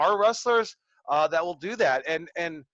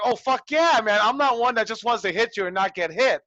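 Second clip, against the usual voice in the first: excited agreement; 5 semitones higher, 5 dB louder than usual. Retold or imitated. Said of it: "And I was like".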